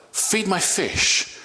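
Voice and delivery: "Feed my fish" said slowly as a joking misquote; slow, deliberate slip: fish instead of sheep; playful misquote of "Feed my sheep"; wrong word slip. Shown as a demonstration. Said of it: "There you go".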